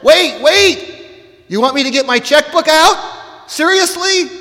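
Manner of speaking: high, loud, hammed-up disbelief; acted alarmed protest. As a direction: balk at God's request in comic dismay. Acted protest to God in prayer.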